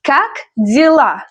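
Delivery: slow Как дела, final а stressed; repeat-after-me model. Shown as a demonstration. Teacher has learners repeat Как дела, slow and careful. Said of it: "Repeat after me".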